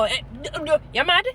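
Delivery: the wrong way to confront a king; brash confrontation. Retold or imitated. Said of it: "Him have to make him voice low".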